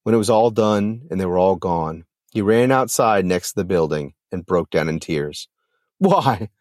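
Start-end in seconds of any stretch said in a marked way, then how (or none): 6.0-6.5 drawn-out, anguished "why"; restrained anguished cry. A narrator's reading. Sterling breaks down alone after the wedding, mildly anguished. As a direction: cry it out inwardly, held back from a scream. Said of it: "his mind screamed".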